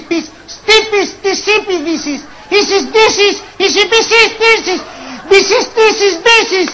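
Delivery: giggling through tangled nonsense syllables; can't stop laughing while garbling the word; laughing gibberish. Real, not acted. Tongue-twisting Piscis into nonsense.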